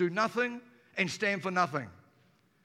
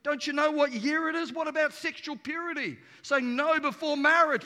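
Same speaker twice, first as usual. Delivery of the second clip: mocking mates; 5 semitones higher, 4 dB louder than usual. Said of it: "And mates go".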